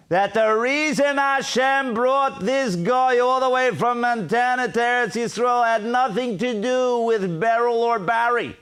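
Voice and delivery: sustained, ringing sermon delivery; fervent preaching. Acted. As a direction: drive the argument home to the congregation, stretching key words. Preaches an alternative explanation.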